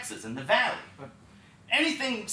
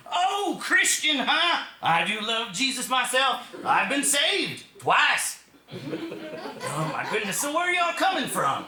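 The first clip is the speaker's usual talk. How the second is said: high, slow hick drawl with a laugh; local redneck voice; 8 semitones higher, 3 dB louder, slower than usual. Retold or imitated. Missouri local chatting with the youth group, high hick drawl. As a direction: ham up the churchy backwoods local. Local replies about Jesus.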